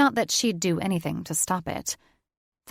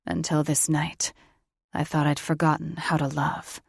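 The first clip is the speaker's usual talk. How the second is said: male lover voice; 3 semitones lower than usual. Acted. Thaddeus voiced lower.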